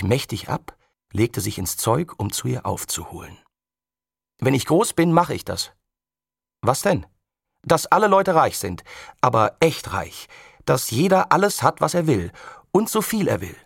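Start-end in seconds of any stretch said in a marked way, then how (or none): 4.4-13.6 put-on boy, higher and louder, dreaming big; mild excited boy voice; eager boast. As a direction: get carried away with the dream.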